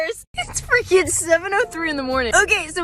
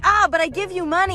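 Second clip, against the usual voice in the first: mock Indian accent. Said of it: "The Indian man's like".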